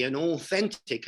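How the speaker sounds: "authentic" given clear, deliberate emphasis; stress on authentic. Real, not acted. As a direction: lean on "authentic" as the key word. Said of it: "I emphasize the word authentic".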